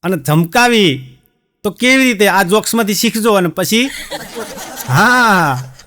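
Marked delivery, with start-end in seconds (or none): none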